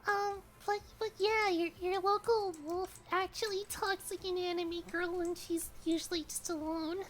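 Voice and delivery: cute anime streamer. Real, not acted. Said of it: "this is actually just my natural voice".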